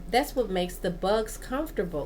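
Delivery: restarting phrases mid-thought; real, hurried verbal stumble; stumbling over words. Real, not acted. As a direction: trip over the words and begin the phrase afresh. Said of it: "Gosh, I'm really stuttering today".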